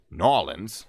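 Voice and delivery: "Nolans" squashed into two slow syllables, NAW-lins; local-style slurred pronunciation. Shown as a demonstration. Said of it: "I'm gonna say Nolans".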